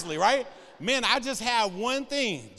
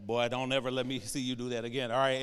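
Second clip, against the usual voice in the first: stern dad; 7 semitones lower than usual. Retold or imitated. Dad scolding the son.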